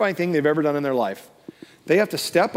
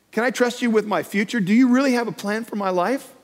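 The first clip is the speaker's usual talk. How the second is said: raised pitch with lifted endings on "you"; questioning; 5 semitones higher than usual. Acted. Believer questions God about life, questioning. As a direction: keep asking, "trust" and "plan" as open questions. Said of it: "We ask the question".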